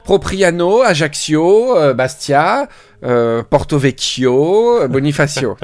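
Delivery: Corsican town names said the French way, final vowels sounded; French pronunciation. Shown as a demonstration. Listing the towns to a friend, French pronunciation. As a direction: say "Propriano", "Ajaccio", "Bonifacio" in full French style. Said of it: "Soit tu dis le nom à la française".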